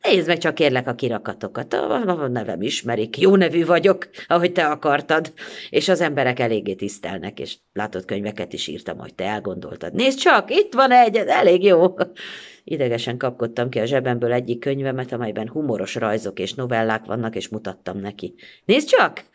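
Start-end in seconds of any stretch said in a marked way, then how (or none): 0.0-11.9 high, hurried self-justifying chatter; nervous rushed boasting. Acted. Narrator babbling nervously to his younger self about his success. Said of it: "Hadarni kezdtem". 18.6-19.2 high, eager nudge to look; eager showing. Acted. Narrator showing his old self his book, eager and high.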